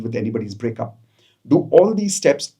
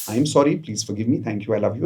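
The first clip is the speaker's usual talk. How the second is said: soft affirmation; 3 semitones lower than usual. Shown as a demonstration. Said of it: "Repeat this eleven times".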